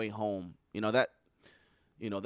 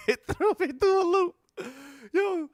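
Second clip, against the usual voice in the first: shocked disbelief; 5 dB louder than usual. Real, not acted. Shocked by casting news.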